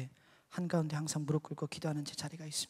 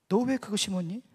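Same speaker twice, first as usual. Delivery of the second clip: mildly stern, pointed question; retold serious questioning; 2 semitones higher, 4 dB louder than usual. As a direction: ask it straight, no nonsense. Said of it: "정색을 하면서 물어봤습니다".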